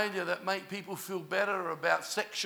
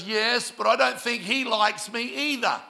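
higher, louder imitation of a distressed girl; retold hurt protest; 4 semitones higher, 5 dB louder than usual. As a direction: push the quote out in hurt protest. Voicing the girl's hurt protest.

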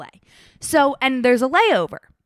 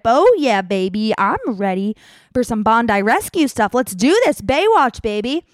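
put-on louder, hyped oh yeah baby; pumped-up bragging; 4 dB louder than usual. Running traveler hypes herself up as fit, excited. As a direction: strut it like a lifeguard.

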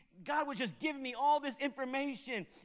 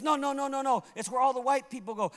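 tag; 4 semitones higher, 4 dB louder than usual. Retold or imitated. Retold insistent objection from Frank.

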